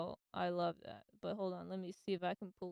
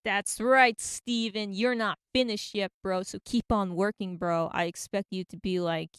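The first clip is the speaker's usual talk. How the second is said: loud, pumped-up cheer to Steven; rally him like a fan; hyped cheering; 7 dB louder than usual. Real, not acted.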